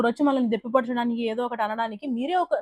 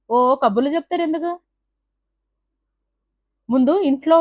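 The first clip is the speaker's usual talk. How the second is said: serious scolding rant. Real, not acted. Vlogger scolding viewers over state quarrels, heated and stern. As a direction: scold them like an angry elder.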